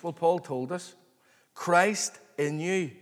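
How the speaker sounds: ordinary delivery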